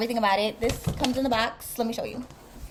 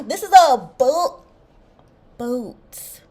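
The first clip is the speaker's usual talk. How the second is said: thrilled; 7 dB louder, much slower than usual. Real, not acted. Thrilled unboxing the new boots.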